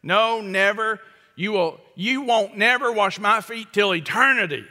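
Peter digging in his heels; strong refusal. Retold or imitated. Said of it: "this super strong negative".

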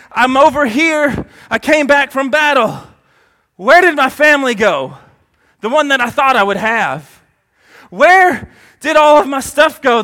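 rising to a desperate cry; anguished crying out. Acted. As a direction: call out in loss and confusion. Distraught person's lament acted out.

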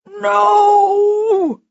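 high, loud, drawn-out scream; shrieked cry of refusal; Froggy. A narrator's reading. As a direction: scream it out in desperate terror. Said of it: "Froggy screamed".

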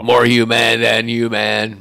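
slow, loud growled rock singer voice; impression of a rock singer. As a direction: drag it out like a metal frontman. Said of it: "That was a really good rock singer impression".

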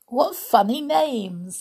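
high, slow, amused storybook princess; giggly. Acted. Snow White reading the dwarfs' names, giggly. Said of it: "Snow White giggled".

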